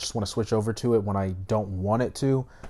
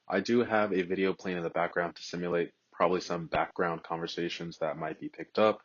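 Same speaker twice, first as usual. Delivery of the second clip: lower, softer voice through AirPods microphone; AirPods mic test; 4 semitones lower, 6 dB quieter than usual. Shown as a demonstration. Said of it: "test of me talking with the AirPods Pro".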